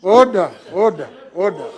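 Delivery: sharp call to order; shouting order. Real, not acted. Speaker restoring order in house.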